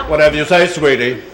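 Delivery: lightly camp, compliant engineer voice; hammed-up sweet-talking engineer. Engineer agreeing to the captain's order, lightly camp. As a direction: give in with a hint of camp. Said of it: "they had picked some other dialect".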